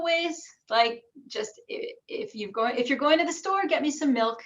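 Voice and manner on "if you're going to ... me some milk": a light rising chant-like tune; mildly sing-song Orthodox intonation; subtle Jewish intonation. Shown as a demonstration. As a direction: lift the phrase with a slight sing-song lilt. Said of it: "like that, a little more subtle".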